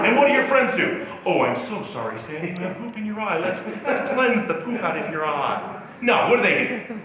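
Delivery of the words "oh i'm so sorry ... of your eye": softly imitated soothing friend; mock sympathy. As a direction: coo with pretend concern, keeping it soft.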